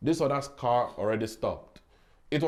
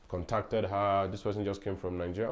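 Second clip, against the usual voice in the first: ordinary talk, nothing marked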